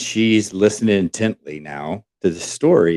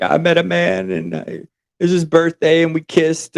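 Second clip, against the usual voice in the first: mock freak-out; 8 semitones higher than usual. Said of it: "freaking out, crying".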